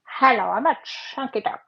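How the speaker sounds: a hint of cartoon duck; lightly voiced duck. Painter voices her chunky duck, lightly put on. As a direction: playfully speak for a little painted duck.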